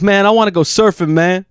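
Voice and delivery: light impression of roommate's Black American speech; imitated Black American speech. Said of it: "he talked like a black guy".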